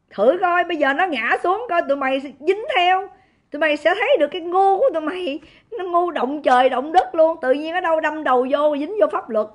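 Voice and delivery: loud, furious scolding of her opponents; cursing with gusto. Real, not acted. Livestreamer berating her enemies to viewers, a loud furious rant. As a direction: raise the voice and tear into them, fast. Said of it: "chửi khí thế luôn".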